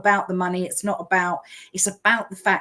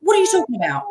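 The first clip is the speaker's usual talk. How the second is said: high, louder mock alarm; whoa slow down; 12 semitones higher, 5 dB louder, slower than usual. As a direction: rein her in, half laughing. Calming excited friend.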